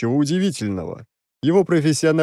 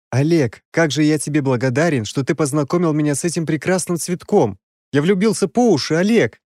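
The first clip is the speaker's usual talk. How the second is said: gushing lovestruck; 5 semitones higher than usual. Acted. Prince gushing about love.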